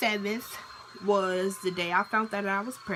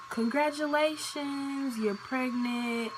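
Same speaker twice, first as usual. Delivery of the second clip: drawn-out, higher sing-song congratulations, slowed; cheery nurse announcement; 5 semitones higher, slower than usual. Retold or imitated. Nurse cheerfully telling a young patient she's pregnant, sing-song. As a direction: announce it brightly like happy news. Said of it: "They like".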